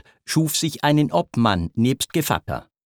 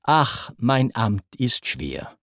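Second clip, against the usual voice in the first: weary sigh; slower than usual. Acted. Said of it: "in den Thron versinkend".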